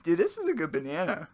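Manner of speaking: talking through a mouthful; mouth full. Real, not acted. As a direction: say it round a bite of banana. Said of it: "talking with their mouths full".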